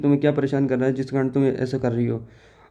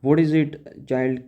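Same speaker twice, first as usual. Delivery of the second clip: slow, deliberate English reading; teacher rereading the line slowly; slow read-aloud; much slower than usual. Shown as a demonstration. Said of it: "she asked".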